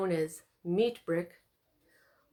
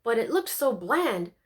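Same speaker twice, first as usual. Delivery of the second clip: proud sing-song; 4 semitones higher, 4 dB louder than usual. A narrator's reading. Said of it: "finished proudly in a sing-song".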